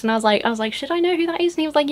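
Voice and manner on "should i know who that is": high-pitched, unsure retold question; clueless questioning. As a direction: ask it as if embarrassingly clueless. Retells her clueless question to friend.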